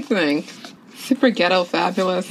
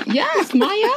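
excited cheer. Real, not acted. Cheering for character.

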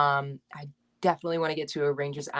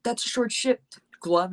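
put-on Long Island accent; 7 semitones higher, slower than usual. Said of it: "hockey chirps with a Long Island accent".

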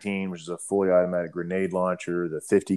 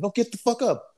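retold sergeant order. Sergeant ordering a crawling soldier to stand, mock bark. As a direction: snap it out like a sergeant kicking you up. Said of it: "I was like".

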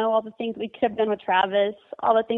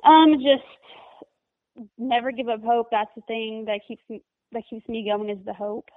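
teary-eyed; slower than usual. Real, not acted. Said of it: "I'm kinda getting teary-eyed".

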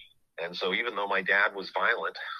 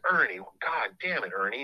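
a higher, exasperated outburst at the name; lightly voiced frustrated official, pitched up; frustrated exasperation; 4 semitones higher, 3 dB louder than usual. Officials frustrated at Ernie's threat, exasperated outburst. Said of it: "they were frustrated".

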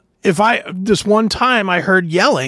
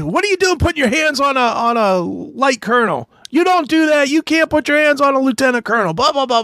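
high-pitched mock scolding, fast in parts; retold yelling; 9 semitones higher than usual. General scolding his private for grabbing a colonel: high, hammed-up yelling. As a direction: replay the general chewing him out, pitched way up. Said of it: "He yells at me".

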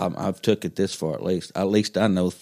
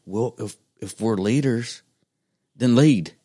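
building emphatic; 3 semitones higher than usual. Retold or imitated. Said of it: "I'm like".

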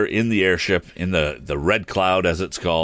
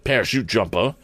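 higher-pitched, lightly voiced showman; balloonist character; 6 semitones higher than usual. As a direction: explain yourself in a slightly put-on higher voice.

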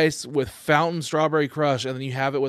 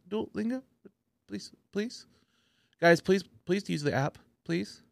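mock desperate plea; 5 semitones higher, 4 dB quieter than usual. Parody Duolingo ad plea.

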